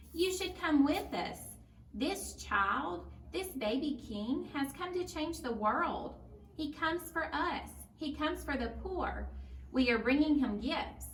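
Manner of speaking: a hint of a young boy urging her to come; eager boy.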